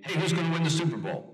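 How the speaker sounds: mock fan in an airport; eager fan question. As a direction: play a keen fan stopping him in the airport. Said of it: "the questions would always be".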